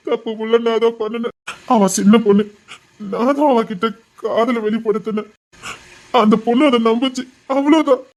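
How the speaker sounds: anguished, catching breath between phrases; tearful. Acted. Nephew defending the girl he wronged, tearful. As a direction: blame yourself while fighting back sobs. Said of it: "நீ அழாத".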